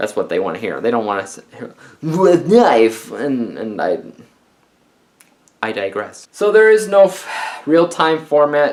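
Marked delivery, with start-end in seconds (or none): 2.0-3.1 fake, put-on Russian accent, higher pitch. Mocking the book's Jack speaking Russian-accented English: put-on Russian accent. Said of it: "he was using a Russian".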